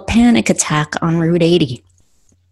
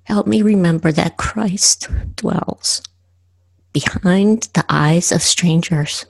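measured recital with long pauses; poem reading; slower than usual. Acted. Poet reads a prayerful poem to listeners, poem reading. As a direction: set each short phrase apart, prayerfully.

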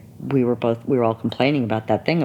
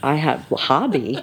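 laughing disbelief; 4 semitones higher than usual. Retold or imitated. Retelling own outraged reaction.

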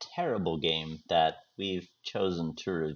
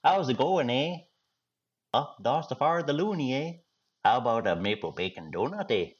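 put-on Canadian accent; 4 semitones higher than usual. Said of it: "Okay, Canada".

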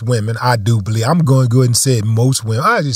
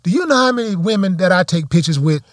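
retold retort; 4 semitones higher than usual.

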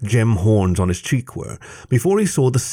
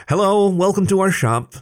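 higher, coolly polite shopkeeper; barely concealed distaste; 10 semitones higher than usual. A narrator's reading. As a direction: greet them with thin-veiled dislike. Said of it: "an air of barely concealed distaste".

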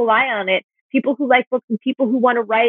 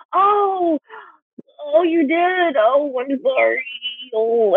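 mock apologetic; 3 semitones higher, much slower than usual. S0 mimicking her apologetic self.

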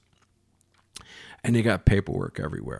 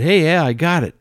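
louder, higher retold shout; triumphant call; 8 semitones higher, 8 dB louder than usual. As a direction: call out your win to someone nearby. Calling out news to the expediter.

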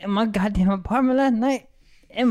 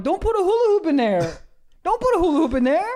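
high-pitched mock yell of protest; yelling at screen; 8 semitones higher, faster than usual. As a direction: yell it like a horrified viewer, comically. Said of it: "I yell at the screen".

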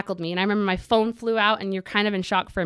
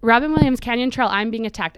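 yelling for help; 3 semitones higher, 4 dB louder than usual. Retold or imitated.

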